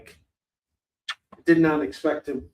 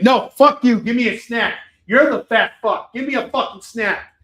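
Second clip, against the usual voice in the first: higher, louder mock-angry dog; mock barking back; 6 semitones higher, 7 dB louder than usual. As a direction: argue back as an indignant dog. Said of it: "barks right back at him".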